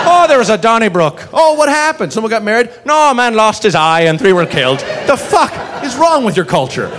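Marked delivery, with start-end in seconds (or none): 0.1-4.8 lightly acted Irish back-and-forth, higher; mock Irish exchange. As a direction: play both sides of a silly chat. Mock dialogue about Donnybrook.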